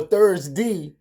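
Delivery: "Thursday" ending in "dee"; Baltimore-style "Thursday", -day turned to -dee; Baltimore pronunciation. Shown as a demonstration. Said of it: "That's how we say it in Baltimore".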